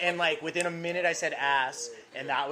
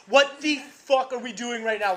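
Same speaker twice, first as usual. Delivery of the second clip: louder retold question; 5 semitones higher, 5 dB louder, slower than usual. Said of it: "and I was like".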